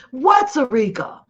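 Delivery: indignant shout at the audience. Real, not acted. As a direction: demand an answer, raising the voice. Louder repeated indignant question.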